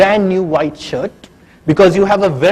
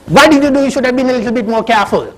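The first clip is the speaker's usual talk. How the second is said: scolding; 4 semitones higher, faster than usual. Pretend. Father scolding daughter over coffee.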